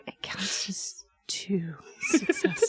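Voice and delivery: breathy seductive whisper; sultry whisper. Pretend. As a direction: whisper it like it turns you on. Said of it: "you sound like you're aroused".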